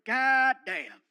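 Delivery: loud, barking tough-guy voice; gruff Stone Cold voice. Retold or imitated. Wrestler calls to Fluffy from his door, loud gruff bark. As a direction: play the brash wrestler calling out. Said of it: "he goes".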